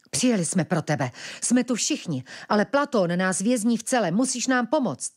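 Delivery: put-on urgent boyish plea; pleading. Ventilek pleads with sister.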